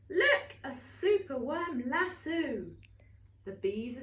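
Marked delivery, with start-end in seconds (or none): 0.1-0.6 high, loud surprised look; surprised gasp. Acted. Storyteller showing children the lasso, surprised. 0.6-2.6 breathy whisper of delight; whispered reveal. Acted. Storyteller whispering the reveal to listening children. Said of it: "whispered reveal".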